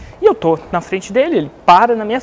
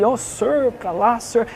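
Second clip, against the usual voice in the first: lightly voiced, mock-polite English officer; a hint of an overly courteous policeman; polite London bobby; 3 semitones higher, much slower than usual. Imitating a polite London cop giving directions, mock-courteous. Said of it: "super educado".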